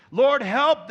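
loud, drawn-out cry for rescue; preacher's dramatized plea. Retold or imitated. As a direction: cry out slowly and forcefully. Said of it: "they cried in their trouble".

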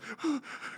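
high, sharp mock gasp; acted panicked gasp. Driver acts out seeing the police follow, panicked gasp. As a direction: gasp as if caught out.

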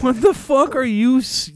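can't believe what you're hearing; baffled. Retold or imitated. Clerk confused by the customer, loud and baffled. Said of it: "I'm like".

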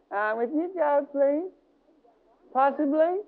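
hesitant, half-hearted prayer; mock a timid believer's plea; weak Christian. Preacher mocking weak Christians, hesitant mock plea. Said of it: "how some Christians go".

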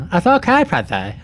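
Pedro Pascal voice. Acted. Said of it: "this is a different S N L sketch".

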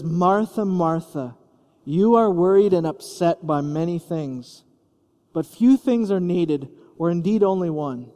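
calm a stressed friend kindly; Jesus reassuring Martha, a touch of tenderness; affectionate. Acted. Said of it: "words of affection".

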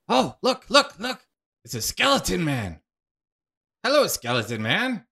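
high, eager squeal of delight; a giddy ghost spotting a skeleton, bubbling over; excited ghost. Acted. Ghost greeting skeleton man, high and thrilled.

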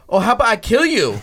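a hint of the boss flaring up; Sam threatening. Boss told no by employee, lightly imitated sudden threat. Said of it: "your impression of him".

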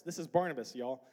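light Southern twang on a casual introduction; southern accent. Shown as a demonstration. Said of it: "where that southern accent came from".

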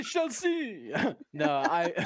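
slow, high mock vampire line; hint of a vampire drawl; vampire accent. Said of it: "could your accent please develop into a vampire accent".

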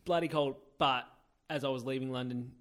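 ordinary talk

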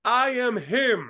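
half-shouted imitation of a ring boast; imitated wrestler's shout. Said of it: "פתאום הוא צועק".

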